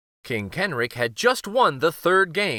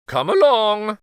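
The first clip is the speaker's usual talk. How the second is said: much higher, loud summons; commanding queen; 9 semitones higher, 7 dB louder than usual. Acted. Queen to the guards, loud high summons. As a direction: call the guards. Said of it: "the queen said".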